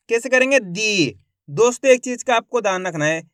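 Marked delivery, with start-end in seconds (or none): 0.6-1.2 "दी" with the ee held long; "दी" as one long, falling syllable; drawn-out long vowel. Shown as a demonstration. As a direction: stretch the vowel in "दी". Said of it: "खींच के पढ़ा जाता है".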